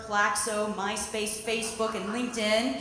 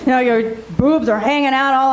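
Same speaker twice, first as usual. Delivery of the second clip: much higher, hammed-up Jerry Springer guest; higher, hammed-up daytime talk show brawl; trashy talk show guest; 6 semitones higher, 10 dB louder than usual. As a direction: shout it like a guest storming the stage. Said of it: "could have been on the Jerry Springer Show".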